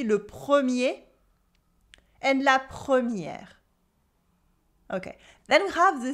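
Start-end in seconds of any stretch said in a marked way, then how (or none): 0.0-3.5 le premier and la première spoken clearly as a model; model pronunciation. Shown as a demonstration. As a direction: say it for them to copy. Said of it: "Repeat after me".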